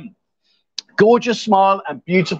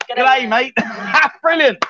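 higher, playful Aussie greeting; imitated Australian accent; 6 semitones higher than usual. Echoing her greeting back, playful Australian accent. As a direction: put on an Australian twang. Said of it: "that's not Australian".

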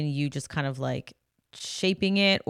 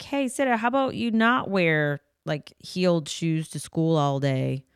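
coaxing parent. Retold or imitated. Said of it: "we'll be like".

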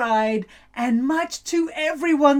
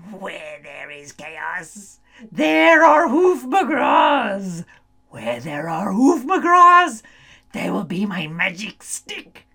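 scheming witch; 3 semitones lower, 4 dB louder than usual. Acted. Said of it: "She chuckled and rubbed her feelers".

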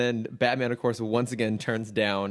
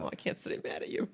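anger turning to laughter; 8 semitones higher, 9 dB quieter than usual. Pretend. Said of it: "Fuck you, Chris".

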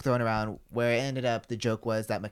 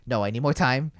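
louder, higher mock-frantic stalling; retold freak-out; 4 semitones higher, 7 dB louder than usual. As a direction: imitate a friend panicking, voice climbing. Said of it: "freaking the fuck out the entire time".

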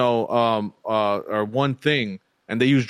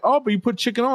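mimicked delivery guy; 11 semitones higher, faster than usual. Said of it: "He's like".

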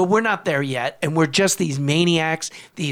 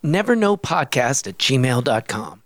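measured announcer read, phrases falling at the ends; podcast outro read; 2 semitones lower than usual. Real, not acted. Telling listeners how to reach the podcast, outro read. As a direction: read out the contact details clearly. Recorded contact read at show's end.

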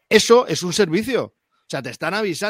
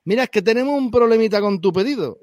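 a badly faked Andalusian accent, a bit higher; mock Andalusian accent; 5 semitones higher than usual. A player imitates the shop clerk calling him on the phone, in a bad Andalusian accent. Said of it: "qué mala imitación de acentos".

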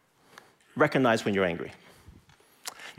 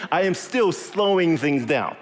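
laughing confession; 3 semitones higher than usual. Real, not acted. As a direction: chuckle while owning up. Joking about falling asleep.

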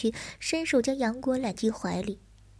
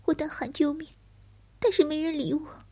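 higher, hesitant fearful telling; frightened young man; 4 semitones higher than usual. Acted. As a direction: recount it timidly, voice raised.

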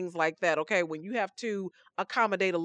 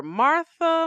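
high and louder, calling her name; 7 semitones higher, 5 dB louder than usual. Acted. Jesus calling out to Martha, higher and louder. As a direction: call to her firmly, reaching up.

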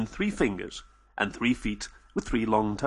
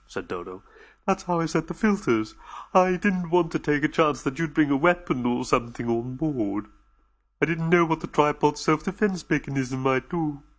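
anxious, gentle alien voice; lightly voiced anxious alien reassuring the visitors; nervous alien host; 2 semitones higher than usual. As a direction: soothe the frightened guests, a little on edge. Dodo explains.

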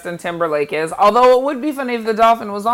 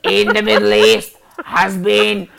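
mock Lindsay Lohan accent with a cigarettes-and-coke rasp; light imitation of Lindsay Lohan's smoky coke voice. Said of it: "cigarettes and coke voice too".

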